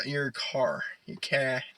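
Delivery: mock Boston "cah" for car; dropped R, "your cah"; playful Boston accent. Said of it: "the Boston accent".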